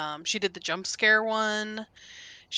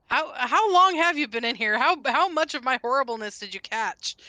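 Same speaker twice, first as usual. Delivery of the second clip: embarrassed; 4 semitones higher, 7 dB louder than usual. Real, not acted. Embarrassed, caught singing.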